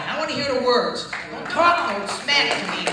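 loud, high, building challenge; fiery preacher roar; preaching shout. Real, not acted. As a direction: shout it at the doubters, rising. Preaching at full force.

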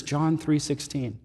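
soft and slow, "John three sixteen" barely voiced; whisper. Sick husband softly asking for a verse. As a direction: hush it like a frail man in bed. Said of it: "And he whispers".

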